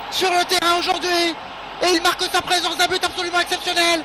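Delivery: excited sports commentary. Real, not acted. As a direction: shout the goal with delight. Goal call in match commentary.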